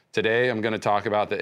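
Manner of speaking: unemotional manuscript reading; John Edwards. Retold or imitated. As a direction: read it out with no emotion at all. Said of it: "he would talk like this, not emotional at all".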